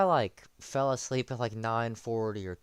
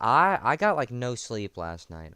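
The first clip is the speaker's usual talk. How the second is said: louder; 6 dB louder than usual. Real, not acted. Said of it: "turn the volume up".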